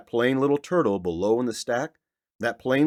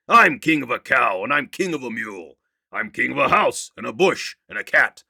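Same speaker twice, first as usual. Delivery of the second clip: louder, proud king declaring; thundering royal voice; 2 semitones higher, 5 dB louder than usual. Acted. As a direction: boom out your rule over everyone. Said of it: "his royal voice thundered".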